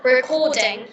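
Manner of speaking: British-accented model word. Shown as a demonstration. Showing partner the British pronunciation, British accent. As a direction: say it as a British speaker would. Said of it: "In the British accent".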